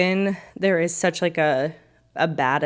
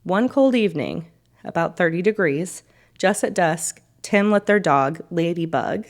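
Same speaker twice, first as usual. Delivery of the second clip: story narration. A narrator's reading.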